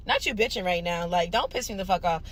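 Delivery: low, quiet, menacing mutter; a restrained, quiet threat at the boyfriend; quiet warning. Retold or imitated. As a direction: hold the anger in and warn him softly.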